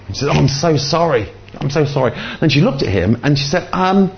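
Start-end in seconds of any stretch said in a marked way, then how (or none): 0.3-2.1 higher-pitched flustered mock apology; high, hurried-sounding retold sorry; acted apology. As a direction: imitate a woman apologising profusely. Acts flustered woman apologising after collision.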